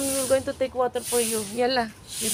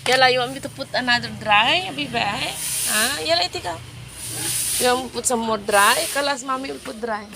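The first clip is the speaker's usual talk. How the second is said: calling the cats; 3 semitones higher, 3 dB louder than usual. Real, not acted. Mother calling cats to eat.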